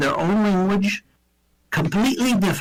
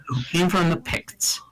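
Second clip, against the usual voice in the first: mock secret. Secretive aside about Geordies.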